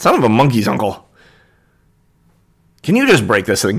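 fast, squabbling, bickering little kobold voice. After his thing snaps off, a kobold turns to the armored one: bickering kobold voice. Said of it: "The other two are very clearly kobolds, / little humanoid, like halfling sized creature just bickering and pointing at a door at the base of the tower. Kind of peek and you're staring at them and watc".

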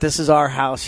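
ordinary delivery

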